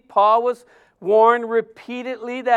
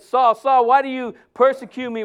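calling out louder and higher; voice of the Lord; 3 semitones higher, 5 dB louder than usual. Acted. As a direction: boom it down from heaven. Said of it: "and the voice said".

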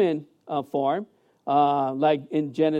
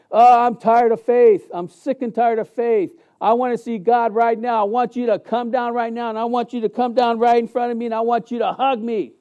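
higher, half-hearted mock outburst at God; retold frustration; 4 semitones higher than usual. Pastor retelling his angry cry to God, mildly mock-frustrated. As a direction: replay the anger lightly, pitch raised. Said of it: "I was mad".

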